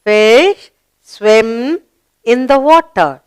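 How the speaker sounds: choral read-along; teacher leading the children in a read-along. Shown as a demonstration. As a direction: lead the class in reading it aloud. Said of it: "Read it with me".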